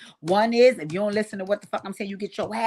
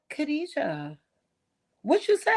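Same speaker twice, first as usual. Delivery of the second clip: high, startled mother calling her daughter; mother catching her child hitting a doll, high and startled; surprised mother; 9 semitones higher than usual. Retold or imitated. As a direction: mom rushing out of the kitchen, shocked. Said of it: "She was like".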